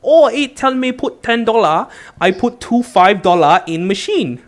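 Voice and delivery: imitating a heavy Asian accent, high and broken English; strong Asian accent. Dad's stranger at the pay machine, in a mock Asian accent. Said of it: "said in a very strong Asian accent".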